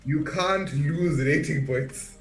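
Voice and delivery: slow, drawn-out slogan; slogan delivery. Shown as a demonstration. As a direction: announce it slowly like a new catchphrase. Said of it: "I'm gonna start a new slogan".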